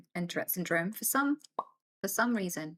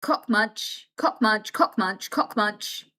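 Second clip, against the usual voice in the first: repeated tic; 5 dB louder, much slower than usual. Real, not acted.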